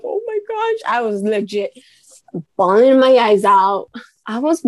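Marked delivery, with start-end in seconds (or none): 0.0-0.9 retold gasp. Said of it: "I was like".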